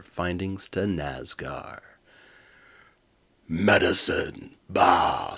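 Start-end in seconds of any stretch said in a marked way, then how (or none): 3.5-5.3 slow, loud scoffing villain; scornful warlord. Acted. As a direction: spit it out with contempt.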